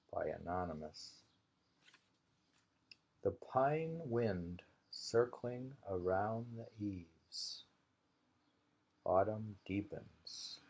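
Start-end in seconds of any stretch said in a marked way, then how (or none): 3.2-10.6 slow, unhurried poem recital; slow haiku reading. Acted. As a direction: let each line of the haiku hang in the air. Reads Basho haiku twice.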